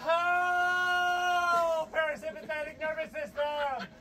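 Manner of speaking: breathless cold-shock gasp; shuddering cry from the cold. Real, not acted. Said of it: "gasping from cold water".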